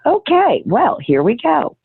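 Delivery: high-pitched imitation of someone bracing themselves; mock bracing. Imagines friend facing her sudden bawling.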